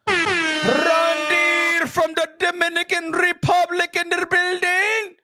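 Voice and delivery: slow, drawn-out hype announcement; announcer call-out. Acted. Host hyping the guest's arrival, slow ring-announcer call.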